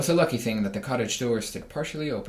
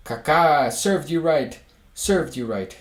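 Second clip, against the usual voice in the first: loud, higher clucking jeer; hens crying out; 4 semitones higher, 6 dB louder, slower than usual. Acted. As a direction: cackle the taunt like a mob of hens. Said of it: "they all cried at once".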